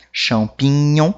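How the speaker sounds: slow "Champignon" with gn as nh; "Champignon" with French nasal ending, drawn out. Shown as a demonstration. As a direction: stretch "Champignon" to show the nh sound. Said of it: "Som do N H".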